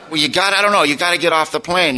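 flustered attendant. Retold or imitated.

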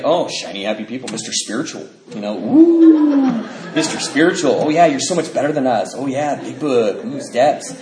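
mock the spiritual guy; sarcastic mockery. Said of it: "And he's like".

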